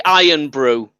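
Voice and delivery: Scottish "Iron Brew", said plainly; Scottish accent demo. Shown as a demonstration. Podcaster teaching co-host Scottish lingo, Scottish accent demo. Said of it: "That's how you get it".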